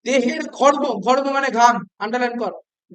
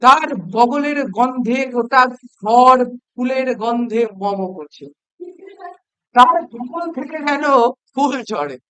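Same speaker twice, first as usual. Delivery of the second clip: slow, drawn-out satirical gushing; mock praise; 5 dB louder, slower than usual. Shown as a demonstration. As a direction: sing the praises sarcastically, for a laugh. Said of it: "আমি একটু ব্যঙ্গ করেই বলছি". (ব্যঙ্গ করে, হাসানোর ঢঙে টেনে টেনে প্রশংসা)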